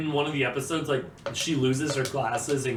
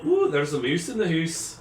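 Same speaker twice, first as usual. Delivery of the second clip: Scottish phrase. Shown as a demonstration. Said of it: "you go".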